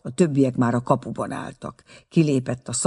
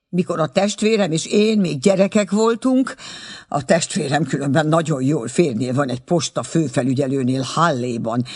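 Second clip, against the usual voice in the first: indignant chattering aunt; 3 semitones higher, 3 dB louder than usual. Acted. Aunt defending her cowardice to Schulze, indignant chatter. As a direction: ramble on in offended self-defence. Aunt's long indignant ramble.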